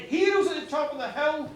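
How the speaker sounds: acted rage, easing at the end; angry shouting. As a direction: rail at the dead in rising outrage. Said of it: "he began shouting and roaring at the dead".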